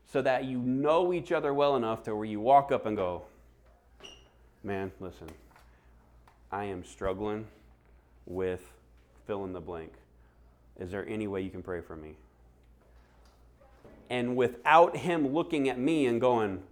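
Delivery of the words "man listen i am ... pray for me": low-key, halting confession; humble confiding. Acted. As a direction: confide a struggle to a trusted friend. Acting a trusting confession to friend.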